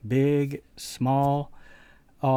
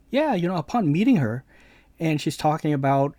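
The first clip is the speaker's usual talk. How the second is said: higher and louder, worked up; agitated friend, imitated; 4 semitones higher, 5 dB louder than usual. Friend complaining to the narrator about Hammer, imitated agitation. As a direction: let the friend's indignation spill out.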